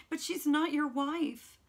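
slow, loud, high cry; distracted cry. A narrator's reading. Sue cries out to Jude in distraction, loud and slow. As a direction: cry it out, beside herself. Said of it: "cried Sue distractedly".

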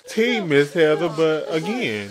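scolding Heather through the screen; loud mocking scold. Real, not acted. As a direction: drag out the final jab.

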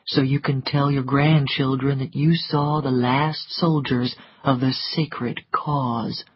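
lightly voiced man, low and slowing at the end; low, understated mockery; a hint of a cynical gentleman; sardonic Rhett.

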